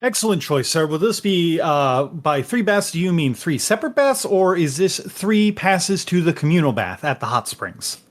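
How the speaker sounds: lightly voiced courteous innkeeper; polite innkeeper. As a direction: answer with polished service manners. Innkeeper offers bath options.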